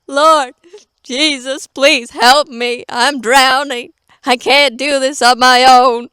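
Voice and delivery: pleading cry. Retold or imitated. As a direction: beg for help, half joking. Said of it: "I'm like".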